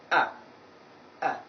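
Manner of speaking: "Ah" as a short, weak central sound, twice; weak vowel. Shown as a demonstration. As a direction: say each "ah" briefly, with little effort. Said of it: "just pronounce it with little effort".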